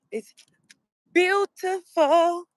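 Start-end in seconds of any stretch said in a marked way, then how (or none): 1.1-2.5 "beautiful" stretched slow, soaring high; awed delight. Real, not acted. Admiring the spring morning for viewers, slow soaring awe. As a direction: swoon over the view.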